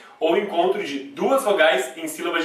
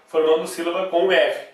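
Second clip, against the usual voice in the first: ordinary delivery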